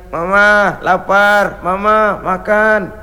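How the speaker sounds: put-on slow, drawn-out pleading of a hungry child; whiny child. Hungry children beg their mother for food, slow whine. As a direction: whine it like a tired little kid.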